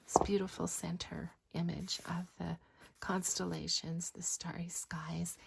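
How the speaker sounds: breathy whispered show-and-tell. Acted. Crafter whispering to viewers while showing pages, hushed. Soft-spoken craft flip-through.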